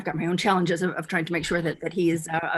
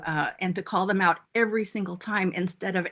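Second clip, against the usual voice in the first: ordinary talk, nothing marked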